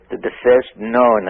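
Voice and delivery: known drawn out with emphasis; stress on known. Real, not acted. Guest qualifying his claim about first civilization, known stressed. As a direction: lean on the word known. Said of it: "I keep stressing known".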